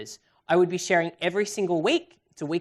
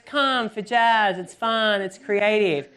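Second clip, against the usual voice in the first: same slow, punchy ad slogan, pitched up; hammed-up rival promo; 5 semitones higher, 4 dB louder, slower than usual. Rival studio echoing the same advert, hammed-up promo voice. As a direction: parrot a generic sales pitch.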